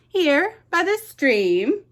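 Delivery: tiny mouse feigning surprise; squeaky mouse. Acted. Mouse to the owl, a high surprised squeak.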